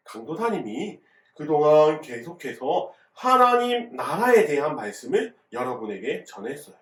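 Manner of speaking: ordinary talk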